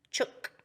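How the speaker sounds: chook with oo as in look; Australian word. Shown as a demonstration. Teacher modelling the Australian word chook. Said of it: "Can you say chooks?".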